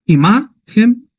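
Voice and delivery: "imahem" stressed on MA, drawn out; slow demo of "imahem" with stress on MA; stress on middle syllable. Shown as a demonstration. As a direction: lean slowly on the middle of "imahem": i-MA-hem. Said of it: "¿Dónde se acentúa imahem?".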